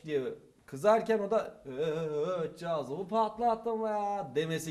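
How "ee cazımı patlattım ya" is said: slow, drawn-out Thracian accent line. Shown as a demonstration. Hallaç's proper line, demoed slowly in Thracian accent. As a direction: stretch it out in a mild Thracian accent. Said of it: "normalde öyle söylemesi gerekiyor".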